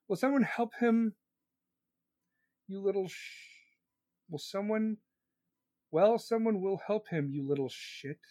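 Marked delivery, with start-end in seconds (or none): 2.7-8.2 muttered under breath. Real, not acted. Muttered insult at the chat.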